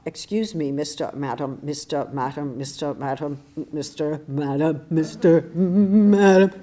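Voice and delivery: a man tripping over mister and madam, rising to a loud, flustered finish; stumbling hotel worker. Retold or imitated. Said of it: "He couldn't get through it".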